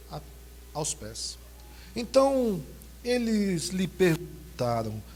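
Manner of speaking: slow, solemn Bible reading; scripture reading. Acted. Pastor reads the resurrection passage to the church, solemn and measured. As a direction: read the Gospel to the congregation.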